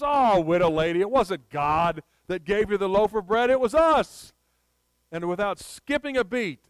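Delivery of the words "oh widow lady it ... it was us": louder mock gloating, rising at the end; mild taunting boast. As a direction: crow it at her as a village ruffian, lightly acted. Ruffians taunt widow in a story.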